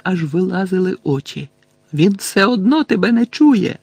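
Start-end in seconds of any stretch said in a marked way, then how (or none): 1.9-3.8 raised, loud taunt; Harry shouting. A narrator's reading. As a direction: shout over the top defiantly. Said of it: "крикнув Гаррі". (гучний піднесений крик)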